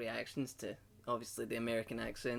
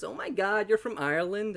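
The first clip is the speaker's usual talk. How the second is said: high, loud gushing imitation; mock excitement; 7 semitones higher, 7 dB louder than usual. Americans hearing where the speaker's from, mock excitement. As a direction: play an overexcited American fan. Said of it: "I would hear is".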